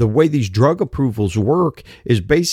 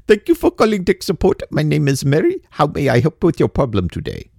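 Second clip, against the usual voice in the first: put-on Indian accent. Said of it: "they got the accent".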